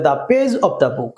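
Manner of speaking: slow, careful example phrase; teacher dictating slowly. Shown as a demonstration. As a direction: model it slowly for the class. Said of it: "singular হলে the page of the book".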